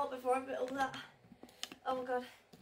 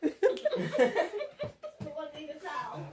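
laughing while crying; 2 semitones higher, much slower than usual. Real, not acted.

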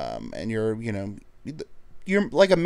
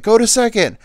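coach calling; 12 semitones higher, 9 dB louder than usual. Retold or imitated.

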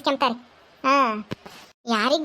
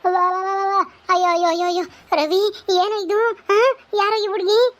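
wailing lament; 4 semitones higher than usual. Acted. Mother wails at son's bride.

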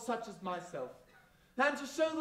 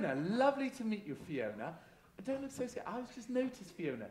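soft and sinister; 5 dB quieter, faster than usual. Acted. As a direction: croon her name softly. Dame teasing audience member.

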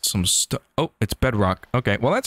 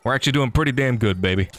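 ordinary talk, nothing marked

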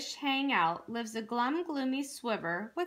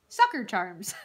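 plain reading voice

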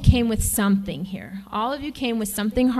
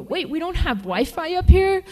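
higher, louder panicky camper; hammed-up dismay at no phone signal; mock panic; 7 semitones higher, 4 dB louder than usual. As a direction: play a spoiled guest losing it over no Wi-Fi. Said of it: "I've heard a few go".

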